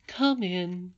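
high, sweet grandmother's call. A narrator's reading. Grandmother calls to Irene at the door, sweetly. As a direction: invite them in sweetly, pitched high. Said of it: "answered the sweet voice".

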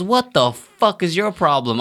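high-pitched mock outrage; imitating an affronted drunk; mock confrontational. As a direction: pick a fight, play-acted. Retold confrontation starting a bar fight.

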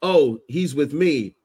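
quoting Starlight. Retold or imitated. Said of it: "when she said".

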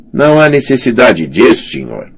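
smooth sneering knight. Acted. Sor Alicer speaking.

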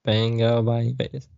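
slow, drawn-out Aussie parody; mock Australian accent. Echoing the friend's tease, in a mock Australian accent. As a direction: echo it in a playful Australian accent. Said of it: "that was more Australian".

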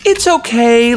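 high-pitched mock reassuring friends; imitated reassurance. Friends excusing an expensive hair mistake, mock reassuring. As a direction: put on a high, placating voice. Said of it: "They're like".

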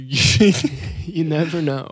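slow, drawn-out mysterious tone; ominous slow. Acted. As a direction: say it darkly and very slowly. Ominous repeat of line.

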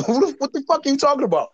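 fast, high words spilling out through a laugh; laughing disbelief. Real, not acted. Recalling the Reese Castle pitch, laughing fast in disbelief. Baffled friend retelling car scene.

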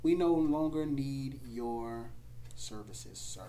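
stiff formal firing voice. Retold or imitated. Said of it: "was told".

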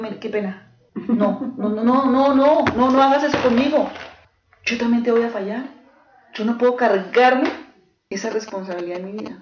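husband pleading no, no, no in alarm; rising alarm, then trailing off; alarmed refusal. Retold or imitated. Frightened husband begging wife not to lean on him, alarmed.

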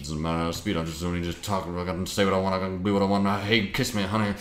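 loose, run-together singer talk; impression of a famous singer. Guest showing how a star ends up speaking, impression of a famous singer. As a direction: talk like a relaxed, do-as-I-please star singer. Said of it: "That's a great impression".

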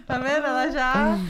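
talking through loud laughter; laughing. Real, not acted. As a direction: laugh the words out. Laughing at a friend's remark.

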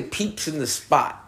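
slow, lightly mocking; mock quote. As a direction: drag the phrase out in disbelief. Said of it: "How y'all gonna say".

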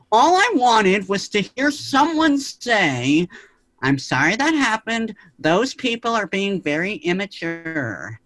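high, slow, pleading plea. Retold or imitated. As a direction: beg to finally hear it. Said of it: "my mom kinda mimicked me".

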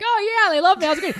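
mock self-satisfied, high and loud; hammed-up actor sure they loved him; the actor's inner voice after a great read, mock smug. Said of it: "You're like".

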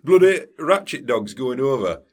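grumbling Sheffield local; Sheffield accent. Pretend. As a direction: moan in broad Sheffield. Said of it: "this is meant to be a Sheffield accent".

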